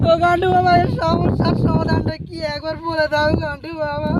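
hammed-up woeful appeal; whining plea. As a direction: wheedle the guru for an answer. Husband pleads with guru for solution.

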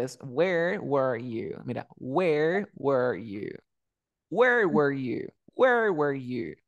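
Where were you spoken slowly, where open and were closed; slow model sentence. Shown as a demonstration. Teacher repeats the question slowly for the student. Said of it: "¿Te diste cuenta?".

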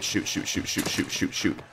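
breathless whispered "shoot"; whispered panic. Real, not acted. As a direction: hiss it under your breath. Under fire, muttering.

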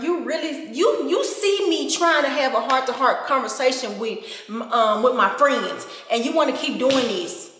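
exasperated mock outrage; mock scolding. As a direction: scold the camera as if it betrayed you. Mock scolding the malfunctioning camera.

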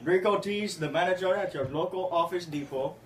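lightly voiced fake manager, barely off his own voice; prank caller Rico Tees. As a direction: play the straight-faced store manager. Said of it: "the character I will be playing in the prank call is Rico Tees".

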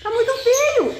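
put-on squeaky baby talk, teasing the bird; high baby talk to a pet. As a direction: coo at the parrot in a high playful voice.

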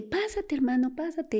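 high, bright-pitched urging to come in; eager welcoming invitation. Retold or imitated. Sister to her visiting brother, eager welcoming invitation. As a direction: coax him inside, pitch lifted high.

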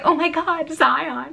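mock-excited mother calling out; imitating mom. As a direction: mimic the embarrassing mom spotting him. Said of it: "She's gonna be like".

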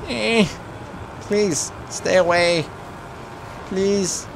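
high-pitched whimpering plea; helpless, high begging; pleading. Real, not acted. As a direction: beg them off in a high little voice. Begging attackers to stay away.

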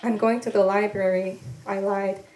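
measured, unhurried poetry voice with weighted pauses; poem reading. Acted. Poet reading her work to an audience, measured and deliberate. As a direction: let each line land like a spoken poem.

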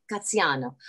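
Graziano with a light Italian accent. Shown as a demonstration. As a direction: roll Graziano out the Italian way, just a touch. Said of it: "I love saying it with an Italian accent".

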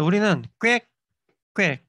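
꽥꽥 said slowly as two crisp syllables; Korean duck sound 꽥꽥. Shown as a demonstration. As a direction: sound out 꽥꽥 slowly, one beat per syllable. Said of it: "오리는 꽥꽥 이렇게 하죠".

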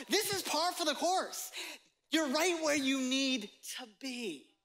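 high, lifted voice of Jesus saying keep going; reassuring Jesus. Acted. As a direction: hand them hope as Jesus would.

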